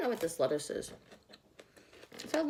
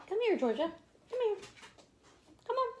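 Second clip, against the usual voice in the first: calling the dog; 12 semitones higher, faster than usual. Real, not acted.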